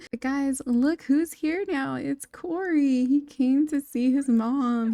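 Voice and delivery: high, drawn-out announcement; excited reveal. Real, not acted. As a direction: stretch it out like a surprise arrival. Announcing the son's arrival.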